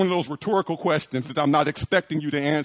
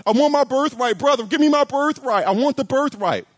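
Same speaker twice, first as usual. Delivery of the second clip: higher, urgent mock begging; acted tearful pleading; 6 semitones higher than usual. Preacher voices a son begging his father for his birthright, acted pleading. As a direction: plead like a crying son, lightly hammed up. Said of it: "He's crying. He's saying".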